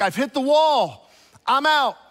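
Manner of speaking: wife hitting the wall, slow and loud; exasperated wife. Retold or imitated. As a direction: throw up your hands, done. Wife at the end of her rope.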